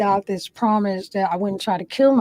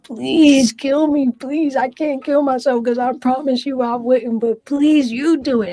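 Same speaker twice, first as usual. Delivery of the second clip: retold desperate begging; 4 semitones higher, 4 dB louder than usual. Pleading with God to end it, higher and strained. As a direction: beg God with a rising, strained voice. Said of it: "begging God to kill me".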